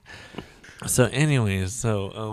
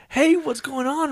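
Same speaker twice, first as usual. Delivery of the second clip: high, slow fake-friendly hey; high mock greeting. Retelling meeting her, high slow greeting.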